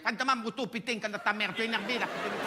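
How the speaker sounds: mock Asian accent with a Marseille twang. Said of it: "ils parlent comme ça".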